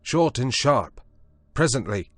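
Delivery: high, loud grim retort; grim defiance. A narrator's reading. Prendick grimly threatens to drown himself, shouting. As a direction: say it like a final threat.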